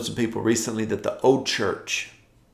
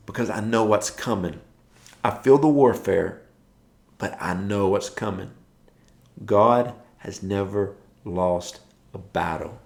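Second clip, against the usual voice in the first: normal talking voice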